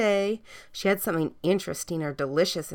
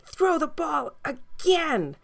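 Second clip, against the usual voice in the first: much higher, slow, eager puppy voice; puppy begging the girl for more fetch, high slow voice; 8 semitones higher, slower than usual. A narrator's reading. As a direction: ask like an eager little dog. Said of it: "the puppy would say".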